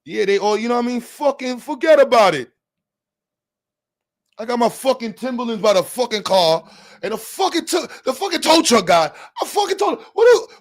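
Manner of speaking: high, worked-up Italian mobster. Acted. Mobster griping about his car and tow truck guy, Italian mobster voice. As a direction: play a complaining Italian mobster. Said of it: "Italian mobster voice".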